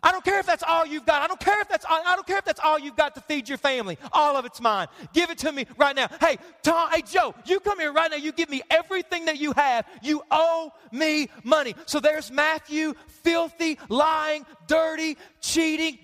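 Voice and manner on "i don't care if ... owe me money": mock tax collector yelling. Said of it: "he's yelling at 'em".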